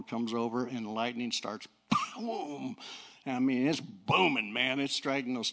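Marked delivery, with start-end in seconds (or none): 2.2-2.8 breathy exploding boom; imitated thunder boom. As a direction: mimic a distant thunderclap.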